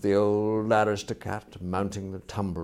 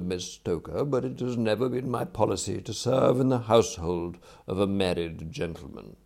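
lightly voiced formal butler, measured and precise; dignified valet; 6 dB louder than usual. Valet explains leaving a soon-married lord, dignified and formal.

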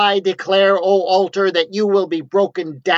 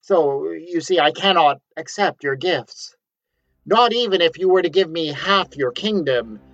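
high, loud, stammering panic; a panicked prophet inventing a vow, higher and louder; flustered refusal; 5 semitones higher, 4 dB louder than usual. Acted. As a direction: stumble over your excuses in a rush of nerves. Flustered prophet refusing king's gifts.

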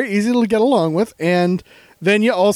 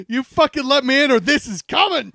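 cat voice; 5 semitones higher than usual. Acted. Acting out the threatening cat.

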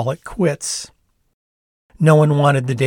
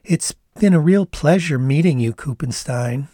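put-on Canadian accent; 3 semitones higher than usual. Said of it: "putting on a thoughtful look".

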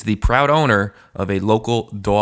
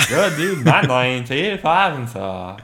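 character voice; 5 semitones higher than usual. Acted. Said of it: "I'm ready to get on this here".

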